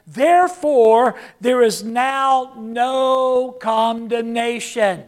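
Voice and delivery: booming scripture declaration; proclaiming. Acted. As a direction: call it out slowly and boldly.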